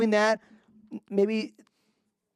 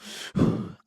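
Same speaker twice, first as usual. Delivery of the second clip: mimicked huffs of anger; angry huffing. Acting out how angry the screamer was, huffing. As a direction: puff out breaths as if fuming. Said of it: "like, enojado".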